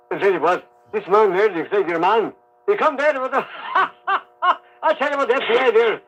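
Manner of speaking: lightly voiced Galway accent, laughing through it; half-imitated Galway brogue breaking into laughs; a hint of a Galway publican; Galway friend's voice. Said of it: "would know this voice immediately".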